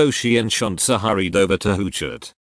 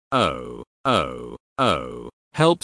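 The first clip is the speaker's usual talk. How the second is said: screeching while falling; 8 semitones lower, much slower than usual. A narrator's reading. Tonell rolling down the steep hill, groaning then yelping for help. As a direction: tumble down the hill with groans and a yelp. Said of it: "screeched Tonell".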